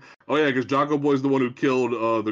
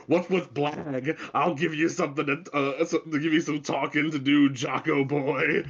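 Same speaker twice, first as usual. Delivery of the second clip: mock tough Bruce. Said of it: "And Bruce goes".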